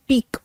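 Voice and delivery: पीक said as "peek", one syllable; French pronunciation. Shown as a demonstration. Teacher models the French word पीक for students. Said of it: "इसकी pronunciation है".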